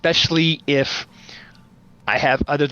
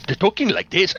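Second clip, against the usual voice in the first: lightly put-on actor voice, higher; Masterpiece Theater voice; 5 semitones higher than usual. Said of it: "everyone's talking like this".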